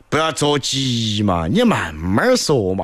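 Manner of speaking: speaking Sichuan dialect. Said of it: "小爱就会用四川话回他".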